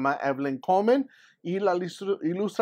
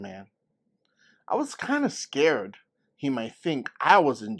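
louder, animated folksy telling; lively grandma storyteller; 3 dB louder, slower than usual. Acted. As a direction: build the chicken man tale with grandma's relish. Grandma tells her childhood story.

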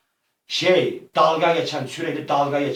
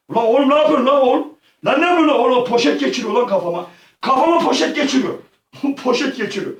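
laughing panicked shouts; 9 semitones higher, 4 dB louder, faster than usual. Real, not acted. Bag put on head.

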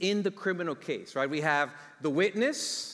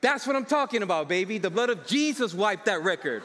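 celebrating; 2 semitones higher, 3 dB louder than usual. Retold or imitated. Celebrating leaving the court.

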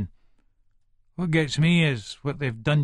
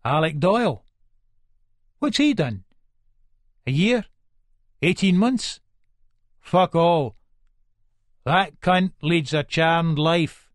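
scornful; 3 semitones higher, 4 dB louder than usual. Acted. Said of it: "Nelly surprises us by going".

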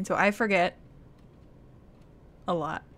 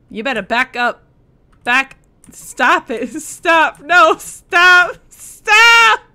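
building from warning to high loud shriek; panicked stop; 5 semitones higher, 11 dB louder, much slower than usual. Real, not acted. Streamer backing away from creepy figures, panicking. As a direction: yell them back, rising to panic.

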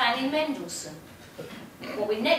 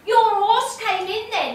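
loud announcement; 9 semitones higher, 8 dB louder than usual. Retold or imitated. Stacey announcing the win within others' earshot, loud imitation. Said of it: "she announces loud enough".

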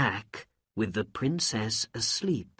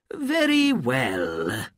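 decisive Sultan; 3 semitones higher, 6 dB louder, slower than usual. Acted. Sultan decides.

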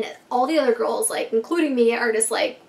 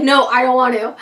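louder, pleading no; scared refusal; 8 dB louder than usual. Retold or imitated. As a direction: push back loudly like a scared kid. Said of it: "I'm like".

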